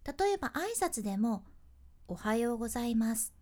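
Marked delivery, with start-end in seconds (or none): 2.1-3.3 おはようございます on one even pitch; flat pitch. Shown as a demonstration. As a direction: say おはようございます level, no rise. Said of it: "同じ高さで言う".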